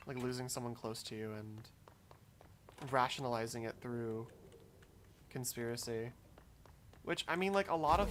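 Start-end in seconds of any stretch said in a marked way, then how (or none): 0.1-6.1 slow, softer thinking aloud; introspective. Real, not acted. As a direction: let the thought come out slowly and quietly. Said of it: "I got really introspective there".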